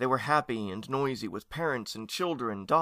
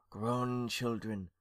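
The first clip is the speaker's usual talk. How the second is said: slow, soft ghostly murmur; 5 dB quieter, much slower than usual. A narrator's reading. Aunt cueing young ghosts to groan, murmuring. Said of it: "murmured Lady Esther".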